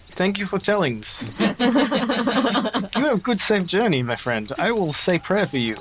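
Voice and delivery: high, slow, laughing farewell; a wink in the voice; knowing farewell. Acted. Baptiste winking as he bids Charlie farewell, high and knowing.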